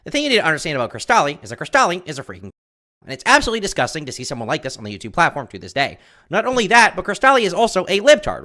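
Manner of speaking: fast, high, loud ranting pundit; rapid-fire nasal political rant; Ben Shapiro voice. Shown as a demonstration. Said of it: "You like my Ben Shapiro accent?".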